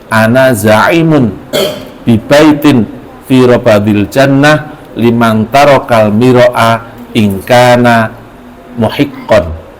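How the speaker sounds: slow, chanted Arabic recitation; hadith recitation. Acted.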